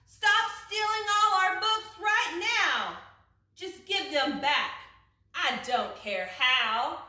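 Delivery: loud, high furious shout. A narrator's reading. Eliza yells out the window at the book thief, furious and loud. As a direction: yell it out the window to stop the thief. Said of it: "shouted to the thing outside".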